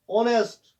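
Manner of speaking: ऑनेस्ट starting on the vowel; silent H. Shown as a demonstration. Teacher models the word, H silent in ऑनेस्ट. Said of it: "एच इसमें silent रहता है".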